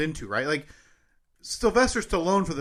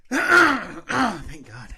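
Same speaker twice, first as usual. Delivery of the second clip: Stallone warm-up; 3 semitones higher, 5 dB louder than usual. Pretend. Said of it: "Your turn".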